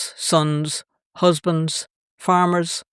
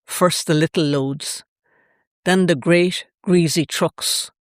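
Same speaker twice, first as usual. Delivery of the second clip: measured poetry reading in short, paused phrases; poem recital. Acted. Activist reads her poem of witnessing drilling, measured recital. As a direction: read it as a spoken poem, pausing after each image.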